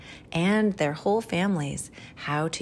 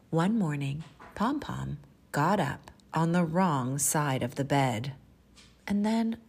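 animated picture-book reading with measured pauses; expressive children's storyteller; storytime narration. Acted. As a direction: read it to little children, savoring key words.

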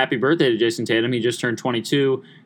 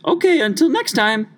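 much higher, gushing put-on lady voice; mock older lady; 11 semitones higher than usual. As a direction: gush like a sweet older lady on the phone. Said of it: "And she goes".

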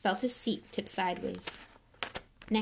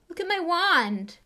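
higher, louder, slow dismay; shaky voice; 10 semitones higher, 6 dB louder than usual. Acted. Ron showing Harry his broken wand, dismayed. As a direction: stress on my, stricken. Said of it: "said Ron in a shaky voice".

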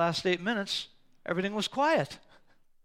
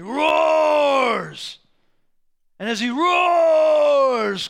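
slow, loud, roaring delivery; big roaring preacher shout; booming roar; 6 semitones higher, 9 dB louder, much slower than usual. Acted. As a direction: boom it out like a lion roaring. Preacher acting the lion's roar.

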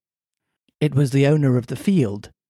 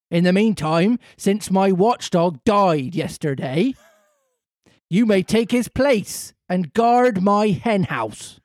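rough farmer; 3 semitones higher, slower than usual. Acted. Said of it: "said to him roughly".

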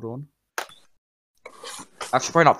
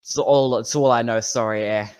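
apologetic Canadian bartender; Canadian accent. Acted. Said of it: "Why is he Canadian?".

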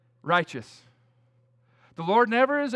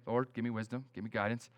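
retold quiet prayer; 7 semitones lower, 9 dB quieter, faster than usual. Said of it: "I was praying".

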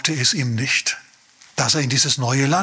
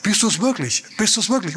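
suspicious father; 5 semitones higher than usual. Acted. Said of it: "das fragt er dreimal".

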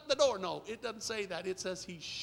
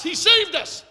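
high, loud shout of revelation; retold joyful shout; 9 semitones higher, 15 dB louder, slower than usual. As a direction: shout it out as the daughter did. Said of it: "she shouts".

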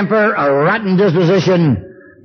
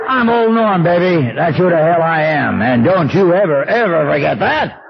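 put-on drunken bragging. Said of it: "In typical alcoholic, I would introduce myself".

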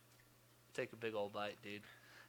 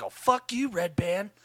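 much higher, screaming comic yell; William Montgomery yell; 9 semitones higher, 13 dB louder than usual. Retold or imitated. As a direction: scream it like an unhinged comedian. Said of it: "when that dude yells".

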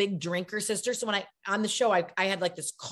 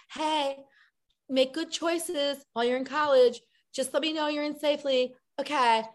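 worried mom; 6 semitones higher than usual. Pretend. Worried mom texting her kid.

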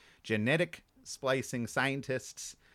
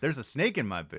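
cowboy toy voice; 4 semitones higher than usual. Pretend. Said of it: "you had one ready to go".

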